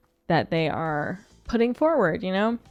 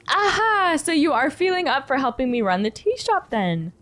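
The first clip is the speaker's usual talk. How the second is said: lightly raised, kindly tea shop keeper; gentle shopkeeper voice; 8 semitones higher than usual. Acted. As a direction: coax a tired guest to rest. Shopkeeper asks eagerly.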